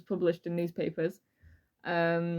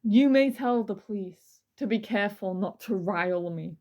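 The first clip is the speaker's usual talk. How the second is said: dramatic reading. Acted. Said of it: "This is a dramatic reading".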